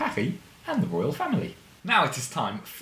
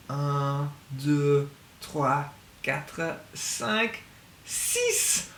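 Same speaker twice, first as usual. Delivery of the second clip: climbing higher with each number; rising count; 4 semitones higher, much slower than usual. Shown as a demonstration. Counting days upward.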